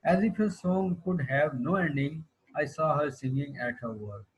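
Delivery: deliberate classroom poetry reading; poem recitation. Acted. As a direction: read the couplet out slowly. Reads the poem aloud to class.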